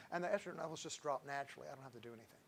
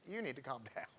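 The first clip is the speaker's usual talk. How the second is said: laughing; 2 semitones lower, 5 dB quieter than usual. Retold or imitated. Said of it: "I'm going".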